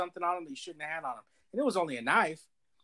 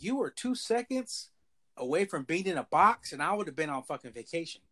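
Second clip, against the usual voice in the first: retold stern warning, stretched out at first; grave cop warning; 2 semitones higher than usual. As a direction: imitate a cop driving a warning home. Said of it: "the way he said that".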